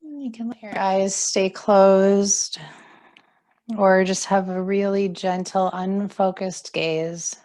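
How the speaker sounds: calm, unhurried yoga teacher voice; guided relaxation. Acted. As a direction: guide them gently into settling and breathing. Guides seated stretches.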